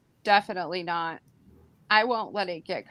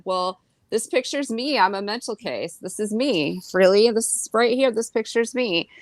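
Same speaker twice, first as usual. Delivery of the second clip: mocking; 4 semitones higher than usual. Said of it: "And I said".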